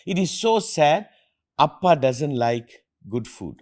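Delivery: imitating his daughter kindly pitying him; father retelling daughter's kind pity, slow and gentle. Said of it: "very kindly".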